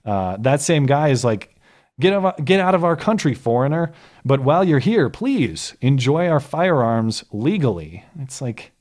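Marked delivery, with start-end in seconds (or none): 2.0-8.0 raised, louder mock redneck; mock redneck, slowing on the last phrase; retold redneck voice. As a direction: lightly imitate a comic's redneck bit. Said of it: "in this redneck voice".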